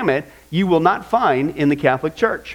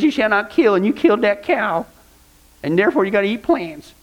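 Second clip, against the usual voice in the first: mocking vegetarian voice; 2 semitones higher than usual. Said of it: "that's how they talk to you".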